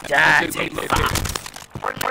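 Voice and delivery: drawn-out quote. Acted.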